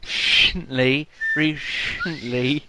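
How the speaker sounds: recently drawn out slowly with a whistled s. Shown as a demonstration. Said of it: "I can't even do that".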